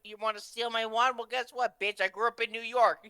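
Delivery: high, loud hammed-up villain rant; mock villain rant. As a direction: ham up a sneering villain. Mock Voldemort wand rant.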